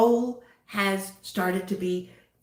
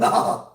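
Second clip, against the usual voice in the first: villain laugh; 5 dB louder than usual. Pretend. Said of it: "my little villain laugh got out".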